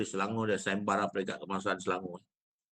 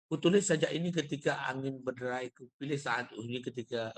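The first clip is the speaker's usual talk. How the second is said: even, run-on reading of the lines; unvaried poem reading; 3 dB quieter than usual. Shown as a demonstration. Teacher showing a poem read without intonation, unvaried reading. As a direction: read the verse straight through, without intonation. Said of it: "kalau saya baca rob itu".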